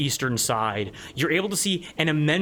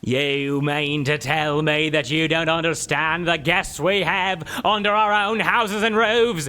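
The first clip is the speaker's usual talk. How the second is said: troll boss; 4 dB louder than usual. Acted. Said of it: "troll answers the player".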